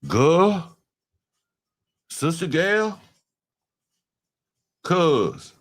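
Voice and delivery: high, drawn-out slang calls; hammed-up hood voice; mock hood greeting. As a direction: ham up the street greetings. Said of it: "was I like".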